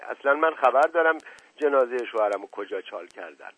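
loud opening, easing into insistent accusation; loud accusing outcry. Acted. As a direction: accuse him over everyone else's voices. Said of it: "صدای عزیز السلطنه بقیهٔ صداها را پوشاند". (اتهام زدن با صدای بلند)

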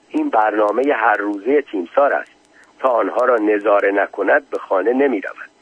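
measured reading of a written memoir; story narration. A narrator's reading. Narrator reads listeners a memoir of visiting the general, formal narration.

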